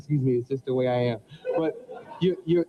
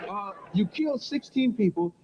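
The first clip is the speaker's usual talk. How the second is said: real laughter fading out; laughing; 5 semitones higher than usual. Real, not acted. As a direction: still chuckling on killed. Host still laughing at Jason.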